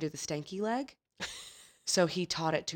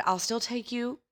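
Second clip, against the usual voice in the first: kind driver voice; 5 semitones higher than usual. Retold or imitated. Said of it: "He said".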